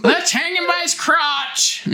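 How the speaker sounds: high, slow words pushed out through real laughter; laughing. Real, not acted. Cracking up while suggesting how to film the splits scene, laughing. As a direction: giggle the line out as you say it. Joking about the movie scene.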